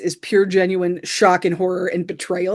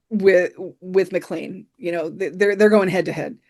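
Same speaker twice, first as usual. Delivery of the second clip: ordinary talk, nothing marked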